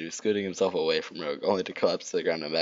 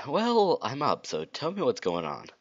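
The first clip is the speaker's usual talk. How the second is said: high Sonic voice; 9 semitones higher, slower than usual. Acted.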